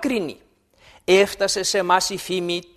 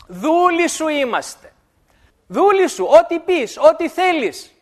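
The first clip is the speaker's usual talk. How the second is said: eager, slow servile pleading; servile plea; 7 semitones higher, 4 dB louder than usual. Acted. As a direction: fawn on the master, begging to serve. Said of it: "λέει". (δουλοπρεπής ικεσία των Γαβαονιτών)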